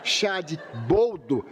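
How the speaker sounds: slow, each tea name dragged with distaste; drawn-out disgust. Retold or imitated. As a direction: savour the horror of each tea slowly. Listing dreaded teas with disgust.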